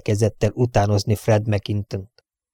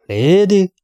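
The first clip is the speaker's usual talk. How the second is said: higher, scornful "Lady?"; irritated grumble; 9 semitones higher, 4 dB louder than usual. Acted. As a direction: scoff at the word like a cross old butler. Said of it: "morogta ingerülten a komornyik".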